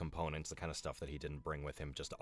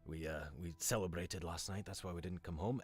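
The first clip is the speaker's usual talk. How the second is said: character speaking to parents. Acted. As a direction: reassure the folks, a bit hushed and careful.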